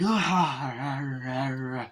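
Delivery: long imitated growling cry; struggling yell. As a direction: let a yell trail into a growl. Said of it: "He's like".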